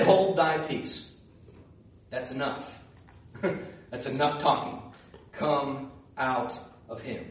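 low, slow voice of authority; quiet command. Acted. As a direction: drop right down and order it out calmly. Jesus quietly commands the spirit.

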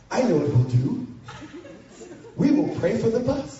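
a hint of a naive pastor with a plan; youth pastor voice. Jeff the youth pastor calmly proposing to pray. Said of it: "the new youth pastor named Jeff walks up and goes".

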